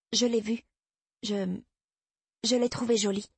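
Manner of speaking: petite voix d'enfant plus aiguë; fillette hésitante. A narrator's reading. Fillette avoue, hésitante, à sa mère. (voix d'enfant prise en faute)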